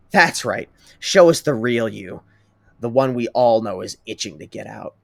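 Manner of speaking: a hint of menace in the taunt; venomous. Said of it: "Todoroki says venomously".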